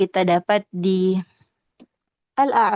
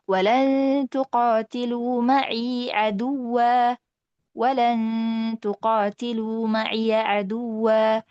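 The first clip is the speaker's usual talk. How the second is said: slow melodic chant of the verse; Quran recitation; 2 semitones higher, much slower than usual. Shown as a demonstration. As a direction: intone reverently, long vowels. (bacaan tartil pelan)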